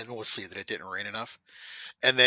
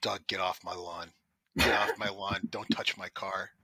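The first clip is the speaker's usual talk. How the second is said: put-on grumpy old man; 3 semitones lower, 3 dB quieter than usual. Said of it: "that's what old people do".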